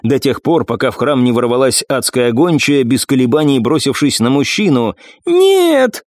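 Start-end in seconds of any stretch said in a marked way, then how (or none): 5.3-6.0 anguished cry. Acted. Hound impaled, cry out.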